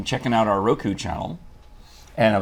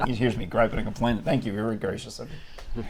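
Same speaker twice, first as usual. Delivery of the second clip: a little gravelly voice; 3 dB quieter than usual. Real, not acted. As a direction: speak with a slight gravel. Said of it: "My voice sounds a little gravelly".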